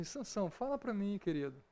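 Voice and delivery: soft, sweet coaxing plea. Retold or imitated. Wife softly coaxing Samson for the answer, sweetly. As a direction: coax him softly like a sweetheart. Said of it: "não é simplesmente falar assim".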